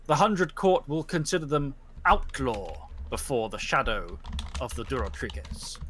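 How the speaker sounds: solemn judge's verdict. Acted. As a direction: pronounce judgement on the pack. Judge threatens outlaw status.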